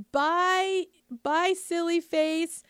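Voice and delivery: high, slow sing-song goodbye, lightly voiced child; playful kid voice. Little one saying goodbye to friends, light playful kid voice. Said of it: "they're like".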